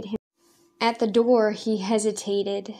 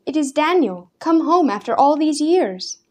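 put-on higher, fussing old woman; a hint of a fussy grandmother nudging the girl; 6 semitones higher, 3 dB louder than usual. A narrator's reading. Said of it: "his grandmother fussed again".

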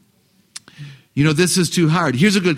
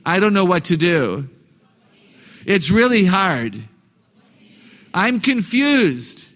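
put-on complaining kid; slower than usual. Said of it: "I'm gonna be the kid".

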